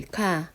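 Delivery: 카 said alone with a strong puff; aspirated sound. Shown as a demonstration. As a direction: isolate an aspirated 카. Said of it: "거센 소리".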